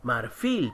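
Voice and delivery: Marfil with weight on "fil"; stress on final syllable. Shown as a demonstration. Teacher repeating the example word, Marfil stressed on "fil". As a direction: lean on the end of Marfil. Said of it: "la mayor fuerza de voz en, está en la última".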